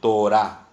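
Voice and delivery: Torá stressed on the last syllable, to-RÁ; accent on final A. Shown as a demonstration. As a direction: land the stress on the A ending Torá. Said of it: "acento en la A".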